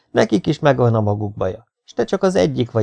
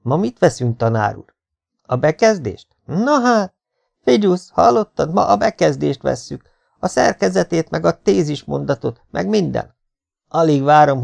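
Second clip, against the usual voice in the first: higher, mock-eager pupil voice, dripping irony; sarcastic student; 4 semitones higher than usual. A student mocking the teacher's lesson plan, sarcastic and higher. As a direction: play the bored kid faking enthusiasm.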